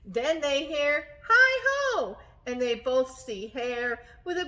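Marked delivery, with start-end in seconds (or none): 1.3-2.2 excited greeting. Acted. Hare calls greeting at door.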